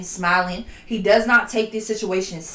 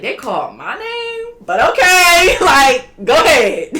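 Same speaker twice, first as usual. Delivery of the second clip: much higher, louder, teary mock mother's voice; imitating Miss McGee; 7 semitones higher, 8 dB louder than usual. Mimicking the mom who was called up to speak in court, hammed-up and weepy. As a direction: ham up a flustered, weepy mom caught off guard. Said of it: "gonna demonstrate to y'all real quick".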